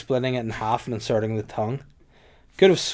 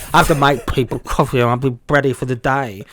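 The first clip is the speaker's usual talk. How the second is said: wrong key; 8 dB louder than usual. Shown as a demonstration. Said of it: "why am I doing the key".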